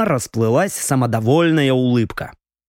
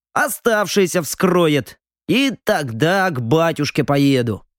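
put-on higher, boastful drunk young noble; tipsy young lord; 4 semitones higher than usual. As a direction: talk like a proud tipsy heir. Drunk viscount explains.

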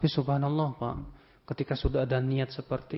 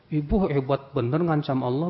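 retold scolding; 5 dB louder than usual. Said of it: "kata saya".

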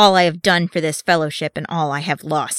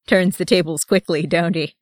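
chuckling; 3 dB louder than usual. A narrator's reading. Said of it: "he began to chuckle".

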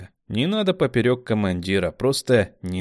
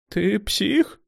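almost plaintive; 12 semitones higher than usual. A narrator's reading. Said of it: "Спросила почти жалобно".

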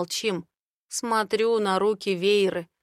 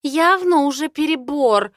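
displeased grumble; 7 semitones higher, 8 dB louder than usual. Acted. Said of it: "недовольно ворчит она".

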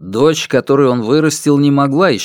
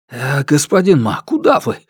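bewildered; 2 semitones higher than usual. Acted. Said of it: "Тот был в растерянности".

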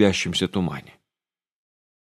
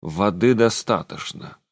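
disgusted. Acted. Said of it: "с отвращением заговорил".

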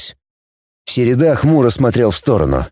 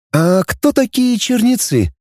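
higher, slow puzzled question; girl Dana; 11 semitones higher, slower than usual. A narrator's reading. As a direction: ask slowly like a puzzled girl. Dana asks. (девичий голос, медленно, недоумённо)

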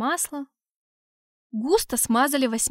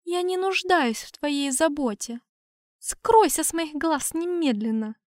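haughty dismissal; 4 semitones higher than usual. Acted. Haughty elf dismissing him.

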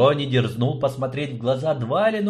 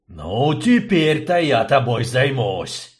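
barking; 4 dB louder than usual. Acted. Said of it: "рявкнул губитель".

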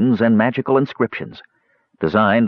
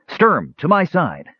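high, urgent call to arms; mild shout; 9 semitones higher, slower than usual. A narrator's reading. Tanin summoning help against danger, restrained shout. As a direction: call him over urgently, without full volume. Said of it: "Tanin shouted".

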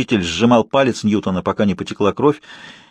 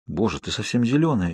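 hushed, alarmed, much softer; frightened whisper; 6 dB quieter than usual. Acted. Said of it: "испуганно прошептал Майк".

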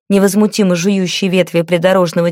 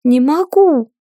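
hopeless sob; 7 semitones higher, slower than usual. A narrator's reading. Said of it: "безнадёжно всхлипнул он".

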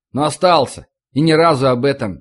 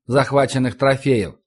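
usual speaking voice

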